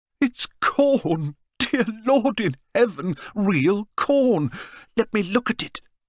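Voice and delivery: very high, half laughing, half weeping through tears. Old Cornille, holding corn in his palm, says it over and over: half laughing, half weeping. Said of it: "half laughing and half weeping".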